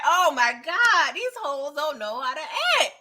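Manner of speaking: a light imitation of the Duke, appalled; mock disgust. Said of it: "The Duke was like".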